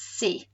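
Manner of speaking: C'est said as "C", no T sound; silent final T. Shown as a demonstration. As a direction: leave the T off the end of C. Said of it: "the T is on the end, so it's silent".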